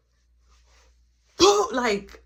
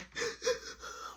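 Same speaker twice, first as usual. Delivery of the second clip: crying gasp; 13 semitones higher, 13 dB quieter than usual. Retold or imitated. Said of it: "she crying".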